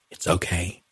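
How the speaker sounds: hushed and teasing; playful whisper. A narrator's reading. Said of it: "she whispers playfully back".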